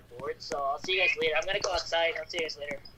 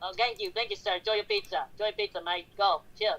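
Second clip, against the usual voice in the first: put-on slight, accidental British accent; a hint of British in a quick sign-off. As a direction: slip lightly into a British guy's accent. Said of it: "did I just sound like a British guy".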